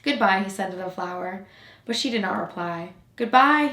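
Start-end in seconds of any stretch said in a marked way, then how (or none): 0.0-0.4 first soft farewell, holding back tears; quiet goodbye. Acted. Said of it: "he repeated". 3.2-3.7 higher, louder repeated farewell; louder goodbye. Acted. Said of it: "he repeated".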